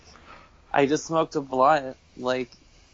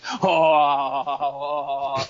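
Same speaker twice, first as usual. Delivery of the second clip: weird laugh noise. Retold or imitated. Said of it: "he keeps making this weird noise".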